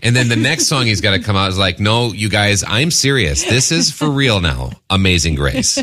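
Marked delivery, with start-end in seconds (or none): 1.8-5.8 slowing down to insist, emphatic mock plea; mock-earnest insistence. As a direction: say it like it's in all caps. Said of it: "Like in all caps".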